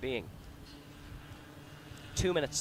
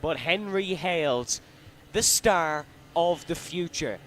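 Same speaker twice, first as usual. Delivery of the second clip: building excitement; 4 semitones higher, 3 dB louder than usual. Real, not acted. Praising the race winner.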